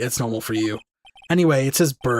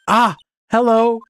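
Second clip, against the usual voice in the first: put-on higher, louder startled little girl hello; startled yelp; 8 semitones higher, 6 dB louder, slower than usual. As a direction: jump in surprise at the stranger. Girl yelps a startled greeting.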